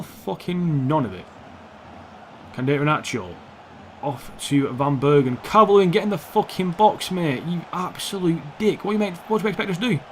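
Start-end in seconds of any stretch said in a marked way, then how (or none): 5.4-10.0 high, sharp rant at a useless player; exasperated outburst. Real, not acted. Gamer scolding a player for not getting in the box, exasperated. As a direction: berate a teammate in raised pitch. Berates his player mid-match.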